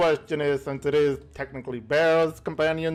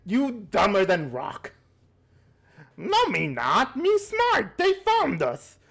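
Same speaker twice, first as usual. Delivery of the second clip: goblin voice; 4 semitones higher than usual. Acted. Goblins bickering in broken speech.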